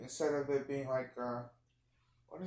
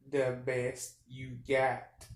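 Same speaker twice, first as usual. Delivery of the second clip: slow, louder, each word spaced out; a customer slowly demanding the best you've got; 6 dB louder, much slower than usual. Retold or imitated. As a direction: lean on it like a demand, dragging it out. Danny DeVito demanding at counter.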